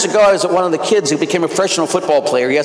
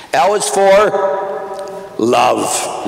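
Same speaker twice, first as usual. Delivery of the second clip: slow; 3 semitones higher, much slower than usual. Acted. Spelling out acronym letter.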